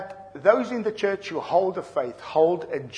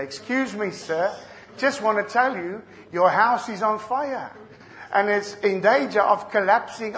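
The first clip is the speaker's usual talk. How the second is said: mock-polite Englishman, higher and chuckling; a hammed-up timid English neighbour; overly polite English; 4 semitones higher, 3 dB louder than usual. Polite Englishman ringing the bell of a burning house, mock-courteous and laughing. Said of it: "ring the bell softly and say".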